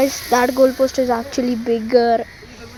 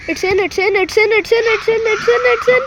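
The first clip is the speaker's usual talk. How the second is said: building suspense; 7 semitones higher, faster than usual. Real, not acted. Rapid repeated call during attack.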